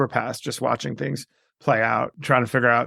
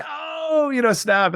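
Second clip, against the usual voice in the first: crowd's mock shout; much slower than usual. Classmates jeering at the teacher, a hammed-up high whoop. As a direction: whoop it like teenagers watching a burn. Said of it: "everyone's like".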